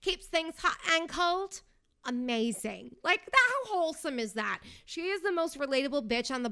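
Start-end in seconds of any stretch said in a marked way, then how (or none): 0.0-1.6 mock ad pitch. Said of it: "I keep quoting".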